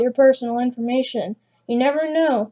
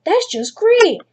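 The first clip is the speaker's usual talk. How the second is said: much higher, louder sarcastic exclamation; 9 semitones higher, 5 dB louder, slower than usual. Real, not acted. Narrator reading her fever, loud higher sarcasm. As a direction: drip irony on great.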